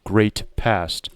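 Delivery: measured, slightly imperious heiress; lightly voiced haughty heiress. Heiress reminding a Valentine of family duty, mildly haughty. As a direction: lightly play a lecturing heiress, drawing out key words.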